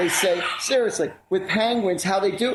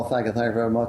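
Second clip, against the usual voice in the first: famous singer impression; 8 semitones lower, faster than usual. Retold or imitated. Host answering a mention of a famous singer with a low impression. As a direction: mimic a famous deep-voiced crooner. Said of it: "Like a famous singer".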